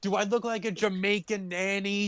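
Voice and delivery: lightly put-on slow mocking voice; mock character voice. Friends riffing on a movie scene, lightly put-on sneering voice. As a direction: play a prickly character sneering at the question.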